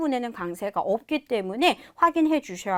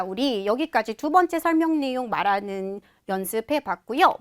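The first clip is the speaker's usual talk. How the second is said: ordinary talk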